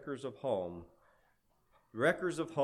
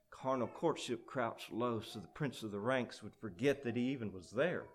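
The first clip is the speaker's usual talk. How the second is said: furtive narration; 4 dB quieter than usual. A narrator's reading. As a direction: tell it as if crouching out of sight. Narrates the hiding imp.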